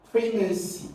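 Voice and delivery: first syllable of "primacy" stressed; "primacy" as a model word, weight up front. Shown as a demonstration. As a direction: hit the PRI in "primacy". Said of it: "have their stress on the first syllable".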